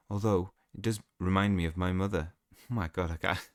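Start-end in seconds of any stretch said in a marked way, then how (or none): 0.1-2.3 put-on accent sliding towards Welsh; a hint of a Welsh accent; slipping into Welsh. Reader voicing Talbot on his mother, accent drifting into Welsh. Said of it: "I'm switching to Welsh now".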